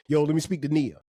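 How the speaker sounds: offhand street greeting, lightly voiced; a touch of careless swagger; casual rude caller. Shown as a demonstration. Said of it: "You couldn't be like".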